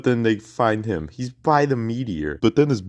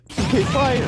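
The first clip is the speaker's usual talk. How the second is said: hammed-up attack shout. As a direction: yell the move name like a cartoon hero. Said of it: "And Ness is like".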